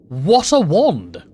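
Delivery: slow, drawn-out delighted exclaim; amazed exclamation. Real, not acted. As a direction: savor each word in awe. Marveling at wand.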